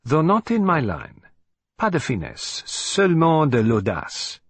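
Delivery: a hint of a Belgian detective, approving, French slipping in; light Poirot voice, amused and unimpressed; lightly voiced Poirot. A narrator's reading.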